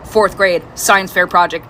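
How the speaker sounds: mock dramatic storyteller. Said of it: "randomly and be like".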